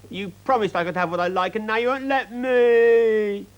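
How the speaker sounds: put-on high, loud complaining child; accusing little girl. A narrator's reading. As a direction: whine it like a wronged spoilt girl.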